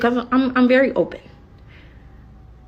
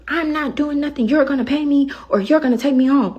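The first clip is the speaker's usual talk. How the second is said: higher, defiant mimicry; mock defiant passenger; 6 semitones higher than usual. Driver imitating a passenger refusing to leave, mock defiant. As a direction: mimic her refusing to budge. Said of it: "she's recording this whole exchange".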